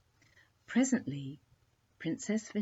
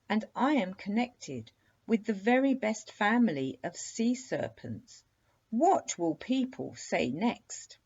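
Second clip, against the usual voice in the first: indignant serpent; 5 semitones higher, 4 dB louder than usual. Acted. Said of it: "foaming like the sea in a tempest".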